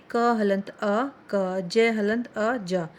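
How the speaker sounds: slowly sounding out क हलंत अ then जय हलंत अ; teacher building क and जा sound by sound, slowly; slow syllable breakdown. Shown as a demonstration. Teacher sounding out letters slowly for students. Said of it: "अ सभी व्यंजनों में मिला होता है".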